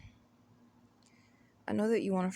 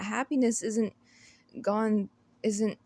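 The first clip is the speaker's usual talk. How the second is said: tripping over the words; stuttering; 3 semitones higher, 4 dB louder than usual. Real, not acted. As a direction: stumble and restart, flustered. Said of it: "I'm stuttering over myself".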